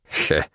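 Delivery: low, short dry "heh"; understated snicker; short chuckle. A narrator's reading. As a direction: give a small knowing chuckle. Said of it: "усмехнулся Палыч".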